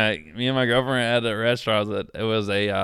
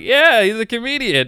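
imitated proud girlfriend; 10 semitones higher, 6 dB louder than usual. Girlfriend tells waitress his job.

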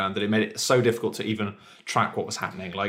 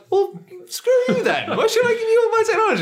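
petulant retort. Retold or imitated. Refused technology, answering the other countries in a high petulant whine. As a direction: whine it like a sulking child.

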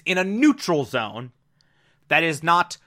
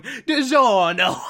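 mock Italian accent; 2 semitones higher, 3 dB louder, slower than usual. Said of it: "trying to do an Italian accent".

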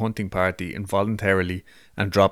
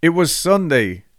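dramatic loud start; 8 semitones higher, 5 dB louder than usual. Acted. Restarting the reading dramatically.

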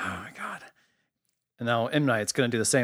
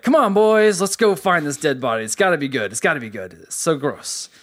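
eager Teddy; 3 semitones higher, 3 dB louder than usual. Retold or imitated. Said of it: "Then Teddy's like".

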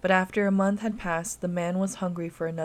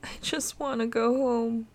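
put-on frightened child; 4 semitones higher than usual. A narrator's reading. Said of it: "with blind fear in her eyes".

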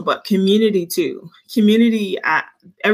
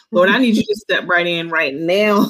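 intense pleading prayer, slowing to a laughing plea; calling on the Lord in earnest, half laughing; fervent prayer. Retold or imitated. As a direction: pray hard like you mean it, half laughing. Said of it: "we going in like".

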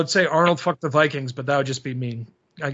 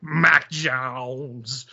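mock scream; 3 semitones lower than usual. Answering his puzzled son, mock scream. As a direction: re-enact a house-wide holler at low volume, stretching the name. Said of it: "running around my house screaming".

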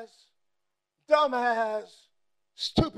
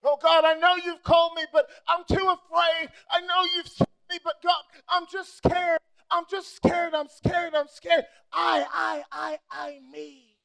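higher pleading whine that fades to nothing; mock scared believer; 3 semitones higher, 4 dB louder than usual. Preacher mocks a fearful believer, whining then fading. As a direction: whimper it like a coward, dying away.

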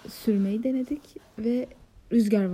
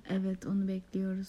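whisper; 2 semitones lower, 7 dB quieter than usual. Real, not acted. Agreeing about awaited film.

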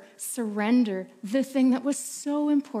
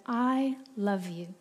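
father's voice; 3 semitones lower, 5 dB quieter, slower than usual. Acted. Father tucking daughter in.

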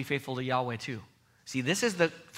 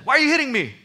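donkey's voice; 11 semitones higher, 10 dB louder, faster than usual. Retold or imitated. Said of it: "the donkey says".

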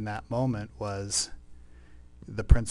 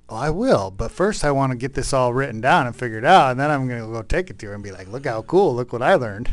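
eager self-quote; 2 semitones higher, 8 dB louder than usual. Retold or imitated. Eager reply to the Spirit.

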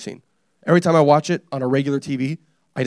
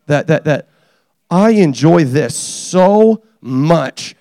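epiphany exclamation; 4 dB louder than usual. Retold or imitated. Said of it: "and I was like".

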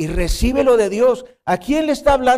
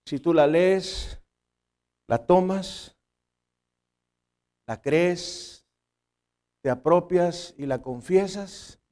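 prayerful appeal; slower than usual. Acted. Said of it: "slow prayerful appeal".

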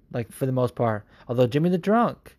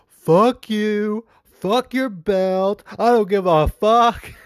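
higher, louder defiant yell; Nate's defiant outburst; 7 semitones higher, 3 dB louder, much slower than usual. Retold or imitated. Fighter snapping at his rival in a press conference, defiant yell. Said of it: "and Nate just goes".

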